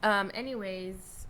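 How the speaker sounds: talking while chewing banana; mouth full. Real, not acted. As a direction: speak through a mouthful. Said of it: "hear me munching".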